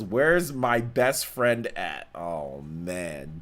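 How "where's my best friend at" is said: read-out donor message. Retold or imitated. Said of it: "and says".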